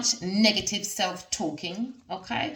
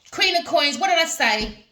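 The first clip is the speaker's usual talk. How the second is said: surprised; 9 semitones higher, 4 dB louder than usual. Real, not acted. Gasp at card drawn.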